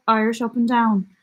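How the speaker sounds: lightly lilting Southern Irish, up and down; Southern Irish accent. Shown as a demonstration. Describing an X Factor singer to viewers, Southern Irish accent. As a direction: give it a Southern Irish lilt. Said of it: "She's a bit, like".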